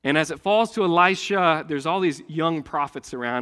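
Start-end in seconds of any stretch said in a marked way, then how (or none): none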